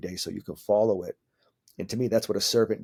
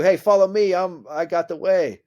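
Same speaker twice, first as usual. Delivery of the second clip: mocking a know-it-all guru, higher and louder; 9 semitones higher, 8 dB louder than usual. Poking fun at teachers who say follow me, mock guru. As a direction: ham up a self-appointed leader, then slow on the last words. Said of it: "If they're telling you".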